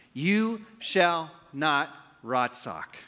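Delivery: "rotzock" बोला गया धीमे, हिब्रू उच्चारण में; Hebrew word read out. Shown as a demonstration. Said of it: "That is Hebrew".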